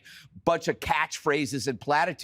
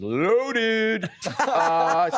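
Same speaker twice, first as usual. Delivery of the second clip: laughing; 3 semitones higher, 3 dB louder than usual. Real, not acted. Joking about Kamala drinking.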